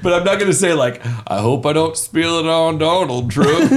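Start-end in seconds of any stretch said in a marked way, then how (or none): 1.2-3.7 lightly voiced self-parody; mock yourself, hammy; impression of himself. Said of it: "did you just do an impersonation of yourself".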